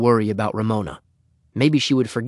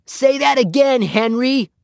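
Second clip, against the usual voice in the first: put-on very high little-girl plea, louder; begging; 14 semitones higher, 4 dB louder, slower than usual. A narrator's reading. Ramona pleads with Henry at the clubhouse window, begging. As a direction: beg eagerly in a small child's high voice. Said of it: "she begged".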